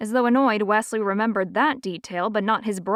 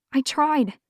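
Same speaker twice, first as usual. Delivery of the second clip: ordinary delivery, nothing marked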